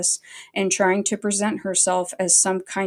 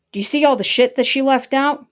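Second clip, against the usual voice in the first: loud, high, indignant challenge; raised-voice indignant question; 6 semitones higher, 6 dB louder than usual. Real, not acted. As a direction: demand it, pitched up and loud. Indignant at cropped screenshots.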